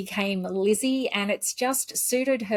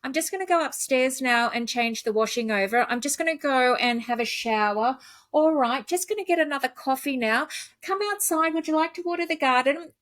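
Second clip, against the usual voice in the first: bright, higher chatter to a pet; chatty talk to dogs; 4 semitones higher than usual. Retold or imitated. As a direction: narrate your chores to the dog, lightly raised. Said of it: "I tell my dogs everything that I'm going to do".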